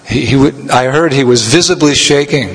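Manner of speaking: ordinary talk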